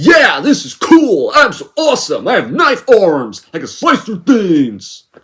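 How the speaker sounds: high, swooping, bouncy, obnoxious, boastful gamer voice. Mocking how a character sounds in a trailer: mocking obnoxious teen gamer voice. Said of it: "sounds like a sixteen-year-old obnoxious gamer".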